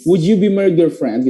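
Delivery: "would you" blended as "wu-jew"; j sound linking "would you"; linked native reading. Shown as a demonstration. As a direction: model the joined "would you" in the question. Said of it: "cara bacanya orang bule itu lebih cepat".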